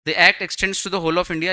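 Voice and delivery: very slow, every word set apart; slow dictation of the law text; slow, deliberate reading. Shown as a demonstration. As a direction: read it out slowly so they catch every word. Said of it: "ध्यान सुनो".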